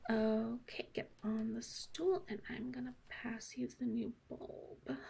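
soft breathy whisper. Acted. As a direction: keep it down, just whisper. Whispered directions to partner.

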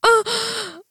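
startled high gasp; sharp high gasp. Acted. Sudden gasp at intimacy.

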